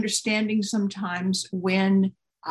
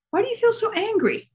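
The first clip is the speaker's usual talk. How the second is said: high, coaxing storybook mother; acted motherly concern in a high voice; 13 semitones higher than usual. A narrator's reading. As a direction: gently ask an upset child, pitched well up. Mother cuddles and questions upset girl.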